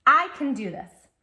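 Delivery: loud, bright rallying repeat; strong encouraging call. Shown as a demonstration. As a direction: cheer it for the child to echo. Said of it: "Can you say that?".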